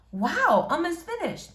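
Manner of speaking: put-on shy girl greeting a boy she likes.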